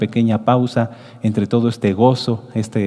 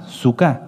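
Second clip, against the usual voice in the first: "Sukkah" with the stress on the final A; stress on last syllable. Shown as a demonstration. A teacher showing students the accent falls on the final A. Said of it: "acento en la última".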